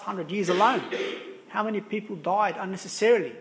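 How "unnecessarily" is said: "unnecessarily" given deliberate emphasis; stress on unnecessarily. Real, not acted. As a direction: lean on the word "unnecessarily". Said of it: "I emphasize the word unnecessarily".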